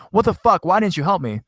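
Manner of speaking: high-pitched, indignant mock yell. Friend demanding why sister didn't help, high mock yell. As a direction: pitch it way up like an upset outburst. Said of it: "crying her eyes out and yelling at my sister".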